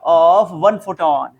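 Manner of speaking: very slow, word by word, for writing down; slow dictation. Shown as a demonstration. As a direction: dictate it slowly so they can write. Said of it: "बोलो, क्या लिखोगे?". (धीरे-धीरे लिखवाना)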